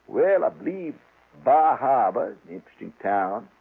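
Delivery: lightly voiced slow, deliberate Maine local; a hint of a laconic Maine bait seller; Maine drawl. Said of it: "talks a little like this".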